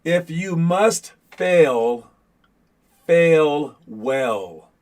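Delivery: slow, deliberate tongue-twister delivery; careful enunciation. Real, not acted. Coach trying hard to say his tricky motto correctly, careful enunciation. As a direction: pronounce "fail" and "well" slowly and separately. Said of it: "I will try my hardest".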